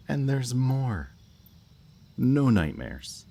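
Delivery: high, loud, drawn-out boast; boastful sales pitch. Acted. Captor touting perks to the hostage, boastful and drawn-out. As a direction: stretch it out like a showman revealing perks.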